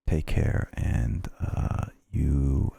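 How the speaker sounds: ASMR whisper. Acted. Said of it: "five minutes of A S M R".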